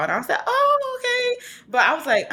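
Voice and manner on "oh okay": high, whiny, half-hearted okay; a child pretending not to care; mock unimpressed kid. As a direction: kid hearing of a rapper's concert, half-hearted. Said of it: "I'm not really excited".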